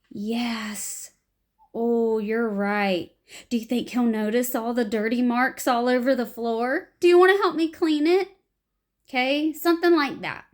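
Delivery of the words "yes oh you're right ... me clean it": right scene response. Shown as a demonstration. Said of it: "What my proper response would have been".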